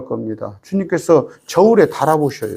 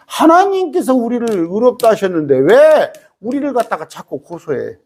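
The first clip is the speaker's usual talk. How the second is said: rising indignant preaching; 6 semitones higher than usual. Acted. Repeats higher and louder.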